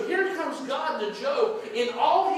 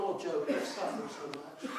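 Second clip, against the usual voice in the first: lower, softer mock grandfatherly soothing; soft, sweet voice; 5 semitones lower, 7 dB quieter than usual. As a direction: imitate a gentle grandfather consoling a child. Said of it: "a soft, sweet voice going".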